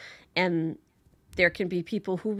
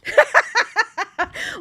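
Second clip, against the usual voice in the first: long, loud, high laughter; real burst of laughter; hearty laugh; 9 dB louder than usual. Real, not acted. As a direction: crack up at the remark. Laughs at co-speaker's trolling remark.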